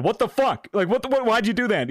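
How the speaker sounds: high-pitched, flustered comeback; retold indignant protest. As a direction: act out protesting to the yelling boss. Retold quarrel with yelling manager.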